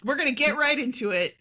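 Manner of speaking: fast. Pretend. Running gag repeating phrase.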